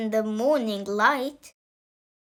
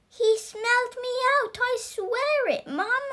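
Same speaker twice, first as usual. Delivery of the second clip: put-on frightened boy; 10 semitones higher than usual. Scared boy pleads with mother.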